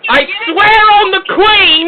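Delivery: loud, very high British outrage; mock-furious shouting. Host out-yelling an abusive caller, furious shouting. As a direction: shriek back as an outraged Brit.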